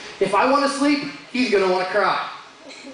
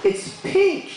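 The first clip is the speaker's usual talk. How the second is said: put-on very high little-boy voice; young son; 13 semitones higher than usual. Son revealing why it's special, high childish voice. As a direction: squeak it out like a small child. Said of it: "my son comes up and he's like".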